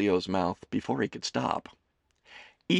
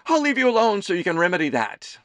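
high, loud doting mother voice; a fussing mother teasing her son; Amelie's voice; 10 semitones higher, 7 dB louder, faster than usual. A narrator's reading. Mother serving her son lunch, high and fussing.

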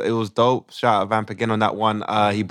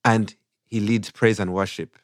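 put-on Ugandan accent; 3 semitones lower than usual. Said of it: "we do it in a Ugandan accent".

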